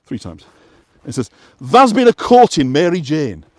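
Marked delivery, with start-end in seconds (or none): 1.6-3.4 slow West Yorkshire dialect, "Tha's" leaned on; lightly voiced West Yorkshire dialect; West Yorkshire accent. Shown as a demonstration. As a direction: draw out the line in broad Yorkshire. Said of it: "an authentic West Yorkshire".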